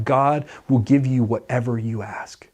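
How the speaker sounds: hushed, almost a whisper; whispered faith. Shown as a demonstration. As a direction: breathe it like a secret.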